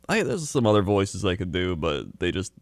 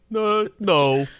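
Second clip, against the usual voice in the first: put-on British accent; 10 semitones higher than usual.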